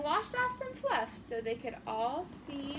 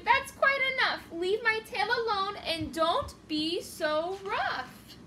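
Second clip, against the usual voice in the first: crying out; 4 semitones higher, 4 dB louder than usual. Acted. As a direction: cry out to make them stop. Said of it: "poor Fluffalump jumped crying".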